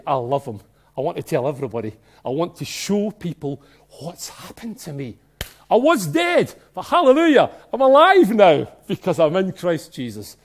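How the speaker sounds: building into an ecstatic shout; joyful testimony. Retold or imitated. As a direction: start calm then burst into hallelujah. Voicing a new believer's testimony.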